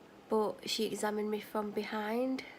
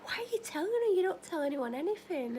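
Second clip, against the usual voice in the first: self-scolding inner voice; 8 semitones higher than usual. Retold or imitated. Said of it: "thinking to myself".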